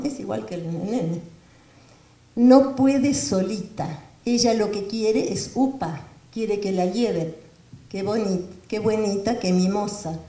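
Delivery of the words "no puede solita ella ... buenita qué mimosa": mother's voice. Retold or imitated. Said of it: "le dice".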